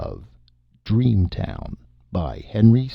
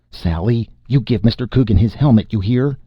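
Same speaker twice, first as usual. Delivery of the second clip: a raised, scolding mom voice; scolding mother; 3 semitones higher, 4 dB louder than usual. Acted. Mom scolding Sally over the stolen helmet, raised and firm. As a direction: call her child to order.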